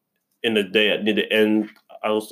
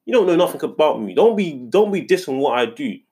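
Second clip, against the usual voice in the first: inner retort; 4 semitones higher than usual. Retold or imitated. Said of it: "I think to myself".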